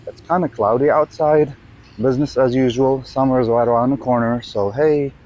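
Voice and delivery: outdoor phone recording, windy; recorded outside with birds and traffic. Real, not acted. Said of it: "So we're out on a sort of a cloudy day".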